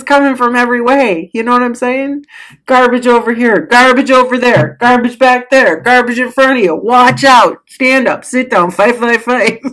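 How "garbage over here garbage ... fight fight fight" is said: frantic. Pretend. Mock chaos coming from everywhere.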